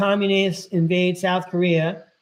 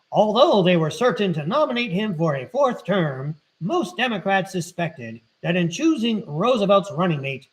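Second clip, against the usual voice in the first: 1940s radio announcer voice. Shown as a demonstration. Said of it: "I totally wanna read this in my nineteen forties radio guy voice".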